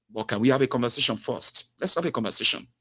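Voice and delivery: calm soft agent. Retold or imitated. Agent calming customer.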